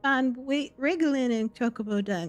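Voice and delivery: high, frantic cowering babble; panicked confession. Acted. Exposed braggart grovelling to the hero in high panic. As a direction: grovel as if caught red-handed and terrified. Caught lying, NPC begs forgiveness.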